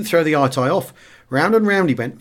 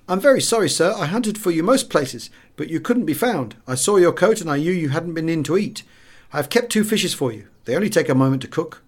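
lightly voiced waiter, higher and apologetic; a hint of an anxious waiter who kept the fish; 4 semitones higher than usual.

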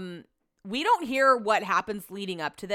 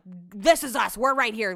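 mildly insistent, firm claim; imitated intensity; 3 dB louder than usual. Retelling a partner blocking a queue-cutter, mildly intense. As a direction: act out someone defending their spot. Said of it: "just gets super intense".

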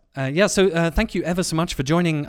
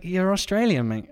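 higher, teasing Australian imitation; mock Australian accent; 6 semitones higher than usual. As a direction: mimic a bad English accent gone Australian. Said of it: "the way he says it".

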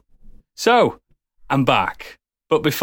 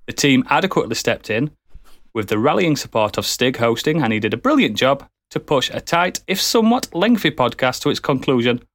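mock-solemn public statement; pompous formal address; formal statement read. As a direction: read it like an official apology letter.

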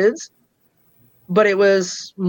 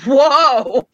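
higher, startled "whoa"; startled objection; 4 semitones higher, 4 dB louder than usual. Retold or imitated. Patient halting doctor who offered to jail her husband, startled objection. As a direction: cut in with an alarmed halt, retold with amusement.

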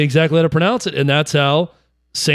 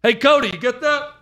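imitating Tannehill; 7 semitones higher than usual. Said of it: "look over there and say".

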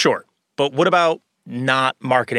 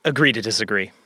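unvoiced whisper; 4 semitones lower than usual. Real, not acted. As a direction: breathe it out with no voice. Whispered retort.

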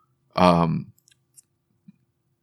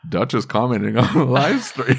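laughing; 4 semitones higher than usual. Retold or imitated. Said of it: "Lucas looks over, and he's like".

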